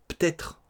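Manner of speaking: "peut-être" said as "p'têtre", first e dropped; reduced peut-être. Shown as a demonstration. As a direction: swallow the e: "p'têtre". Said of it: "P T apostrophe". ("peut-être" prononcé "p'têtre")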